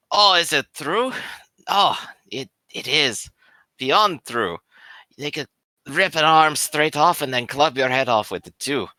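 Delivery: put-on a light, half-intended Irish accent on a tipsy soldier; tipsy boasting in a hint of an Irish accent; slipping Irish accent. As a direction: let a mild Irish lilt creep in, as if from drink. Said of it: "I don't know why I'm Irish now".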